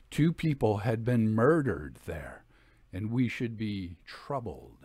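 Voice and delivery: measured, hushed storytelling read; story narration. A narrator's reading. Host reading haunted house tale to listeners, measured storytelling. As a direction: read it like a ghost tale by candlelight. Reads ghost story excerpt.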